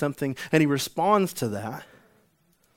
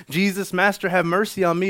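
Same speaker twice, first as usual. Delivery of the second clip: high, loud cry for mercy; acted shout of pleading; yelled plea; 6 semitones higher, 6 dB louder than usual. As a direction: call out to someone far away. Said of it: "and I was yelling".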